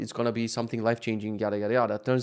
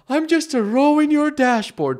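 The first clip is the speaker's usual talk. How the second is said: bitter sarcasm; 12 semitones higher, 6 dB louder, slower than usual. Retold or imitated. Mock quote to trainer.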